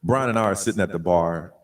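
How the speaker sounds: very low electronic bass narration; deep bass voice changer. Pretend. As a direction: tell the tale through a deep voice changer. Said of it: "a little more deep bass".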